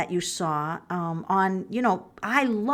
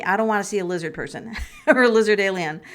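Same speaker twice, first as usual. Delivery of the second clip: laughing; 3 dB louder, faster than usual. Real, not acted. Joking about lizard people.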